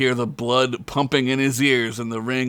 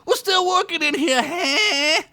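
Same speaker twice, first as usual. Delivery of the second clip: high, loud orc shout; gruff orc holler; orc yell; 4 dB louder than usual. Acted. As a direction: yell up at whoever cut the lights. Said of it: "He yelled".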